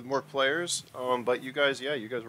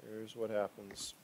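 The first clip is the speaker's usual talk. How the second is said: breathy suspense whisper, slower; 7 dB quieter, slower than usual. Acted. Game master teasing the players with a slow whisper. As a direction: lean in and whisper the twist.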